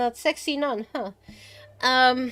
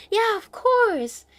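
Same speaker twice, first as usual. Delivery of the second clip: high, drawn-out doting agreement; a lightly imitated indulgent parent; lovely dad; 9 semitones higher, 3 dB louder, slower than usual. Dad happily says yes to daughter, high and slow. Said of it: "the dad was so lovely".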